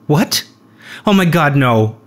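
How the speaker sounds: imitating her distress, rising to a high cried-out no; retold tearful shock. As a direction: act out her disbelief breaking into a high wail. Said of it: "And she starts crying".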